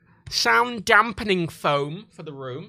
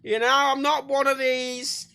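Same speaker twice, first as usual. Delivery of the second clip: mock macho man; 8 semitones higher, 5 dB louder, much slower than usual. Mocking macho real man.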